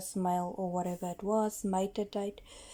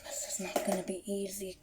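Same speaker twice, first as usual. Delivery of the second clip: hushed whisper near the spider; whispering while hiding; 14 dB quieter than usual. Real, not acted. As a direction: whisper so she isn't startled. Spider coming up, staying hushed.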